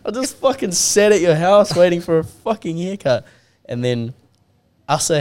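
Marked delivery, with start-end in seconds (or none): 0.0-3.2 higher, louder mock rant at a friend; replaying the fury at the no-show barber mate, higher and louder; retold angry outburst. Telling the mate who missed the haircut off, mock angry shout. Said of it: "I'm like".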